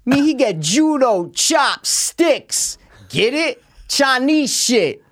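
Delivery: slow, drawn-out broken English joke voice; mock foreign accent. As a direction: ham up a silly accent.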